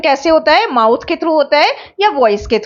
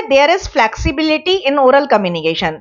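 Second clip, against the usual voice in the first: slow dictation; much slower than usual. Shown as a demonstration. Teacher dictates a point slowly.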